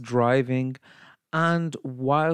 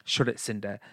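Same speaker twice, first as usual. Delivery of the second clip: proper Bradford accent; 3 semitones lower, 3 dB quieter than usual. Shown as a demonstration. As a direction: demonstrate a Bradford stepsister's put-down. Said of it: "in a proper Bradford accent".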